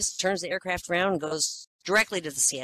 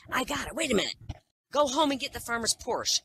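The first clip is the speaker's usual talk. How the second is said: higher, eager horse with a bright idea; excited horse; 8 semitones higher than usual. Acted. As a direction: blurt the plan out in a rush of excitement. Horse gets a sudden idea.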